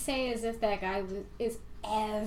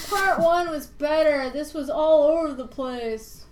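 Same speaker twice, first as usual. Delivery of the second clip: mock whiny reviewer; 4 semitones higher, 8 dB louder than usual.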